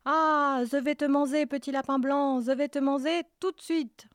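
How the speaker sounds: high loud shout, manger lisped as manzé. Acted. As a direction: roar it, and say manger with a z for the j. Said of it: "Le loup bondit en criant".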